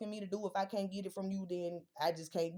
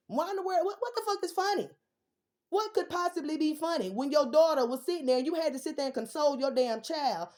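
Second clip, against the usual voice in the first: much higher, louder outraged yell; furious disbelief; 6 semitones higher, 5 dB louder than usual. Real, not acted. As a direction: demand what is funny, in outrage. Furious at the laughing mother.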